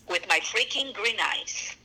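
a real laugh through the words. Real, not acted. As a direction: laugh it out in disbelief. Laughing at her own luck.

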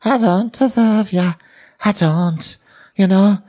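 high, slow, far-off whiny plea; mock Tasha crying on the phone; mock tearful. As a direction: whimper the apology. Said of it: "she's like".

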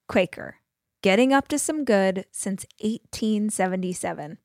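measured, friendly sponsor read. Acted. Parent recommending Airbnb hosting to listeners, polished ad read. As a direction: read it as a personal endorsement, clearly phrased.

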